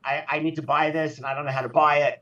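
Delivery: half-hearted impression of mom begging her son for help; mom pleading for help. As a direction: lightly imitate a mom stuck on her phone. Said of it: "I get a phone call".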